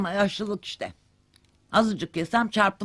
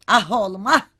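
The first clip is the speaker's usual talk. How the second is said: exasperated; 8 dB louder, faster than usual. Acted. Mother scolding her idle son.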